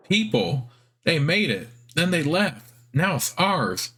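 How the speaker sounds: squeaky spider. Acted. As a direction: explain it like a child. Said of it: "squeaky, high-pitched voice".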